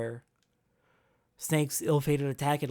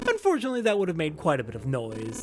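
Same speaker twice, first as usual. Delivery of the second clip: calm villain. Acted. Ace confessing the killing to Snake, cold and unhurried. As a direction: savour every word.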